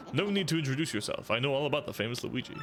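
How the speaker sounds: lightly voiced pompous sleuth; a hint of a smug investigator; generic inquisitive detective. Detective penguin lecturing the player, lightly pompous. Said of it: "generic inquisitive person".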